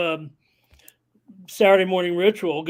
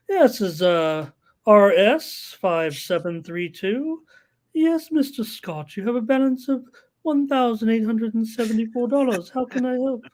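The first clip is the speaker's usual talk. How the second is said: higher, sweet customer-service voice; sportsbook phone girl; 3 semitones higher, 3 dB louder than usual. Retold or imitated. Bettor recalls the nice girl answering, in a sweet operator voice. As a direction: chirp it out like a cheerful phone operator. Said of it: "they'd have the nice girls talking".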